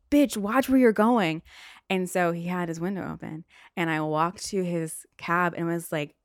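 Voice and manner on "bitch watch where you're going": loud, slow, raised angry driver; retold yell. Taxi driver to woman in crosswalk, angry yell. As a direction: yell it like an irate cabbie. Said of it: "yells at me and was like".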